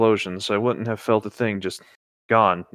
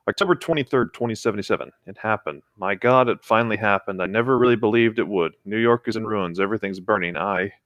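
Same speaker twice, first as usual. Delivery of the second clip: a lightly acted trapped survivor, reading steadily; reading a Fallout lore log aloud to a friend, somber. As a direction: read the survivor's diary entry gravely. Reads the doomed man's log aloud.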